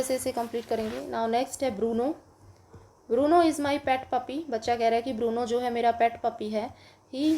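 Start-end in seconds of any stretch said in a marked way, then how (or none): 3.1-4.5 slow reading aloud. Shown as a demonstration. Teacher reads story line aloud.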